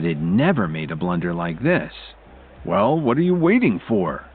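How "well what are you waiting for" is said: mild, higher-pitched scolding; impatient rebuke, kept in check. A narrator's reading. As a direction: scold an underling lightly. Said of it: "Drake scolded him again".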